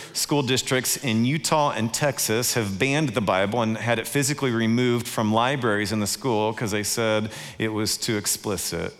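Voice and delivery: ordinary talk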